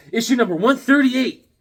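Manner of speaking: high, loud issue announcement; announcer-style callout. Real, not acted. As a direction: call out the issue like a hype announcer.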